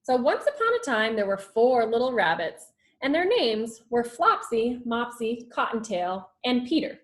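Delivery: put-on lively read-aloud storytelling for children; story narration. A narrator's reading. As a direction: read it like a teacher to the class. Teacher reads story aloud.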